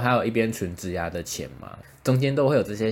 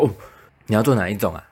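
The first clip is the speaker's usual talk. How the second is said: retold eager dentist, a bit louder; ecstatic tone; 4 dB louder, faster than usual. Dentist sensing a sale, mildly eager and louder. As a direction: pounce on the question like he found prey. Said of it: "欣喜若狂的眼神跟语气".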